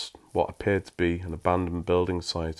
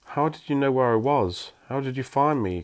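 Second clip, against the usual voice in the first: amazed question; 6 semitones higher, 3 dB louder than usual. A narrator's reading. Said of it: "Craig asked".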